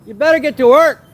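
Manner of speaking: loud, high call upward; calling from far away. Real, not acted. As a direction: call up to a window. Shouting up at Jose's office.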